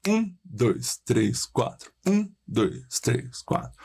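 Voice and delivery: counting one to four, first beat strongest. Shown as a demonstration. Teacher counting a four-beat meter aloud. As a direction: count in fours, the one on top. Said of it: "Ou quaternário".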